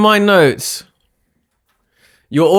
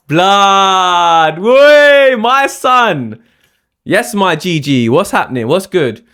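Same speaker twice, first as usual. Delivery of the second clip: street slang greetings; slower than usual. Shown as a demonstration. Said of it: "For example".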